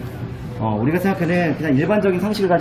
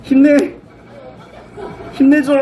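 panicking gamer; 8 semitones higher, slower than usual. Real, not acted. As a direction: beg the claw to hold on. Cheering the claw on.

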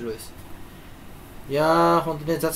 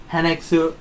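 ドヤ顔. Pretend. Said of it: "すごい面白いと思ってる顔するし".

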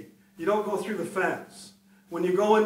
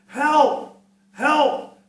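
high, loud cries of help; cry for help; 10 semitones higher, 9 dB louder than usual. Retold or imitated. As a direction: yell it out like someone trapped. Voice crying out from chimney.

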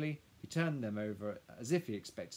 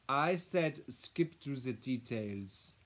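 slow, loud, insistent madame; impatient; 4 semitones higher, 7 dB louder, much slower than usual. A narrator's reading. Madame insisting the lawyer skip ahead, impatient. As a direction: repeat the order with weighty impatience. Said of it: "spoke impatiently to the lawyer".

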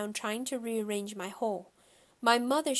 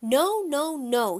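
loud, higher, stubborn no; hollering toddler; 5 semitones higher, 7 dB louder, slower than usual. A narrator's reading. Little brother hollering at the shoe salesman, loud and high. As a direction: holler it like a tantrum. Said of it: "he hollered".

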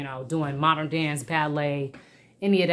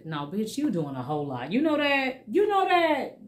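scolding herself; 6 semitones higher than usual. Pretend. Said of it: "That's me talking to me".

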